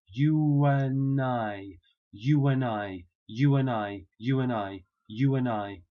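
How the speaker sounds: "you and I" quickly, w glide, no D; linking W. Shown as a demonstration. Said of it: "we drop the D".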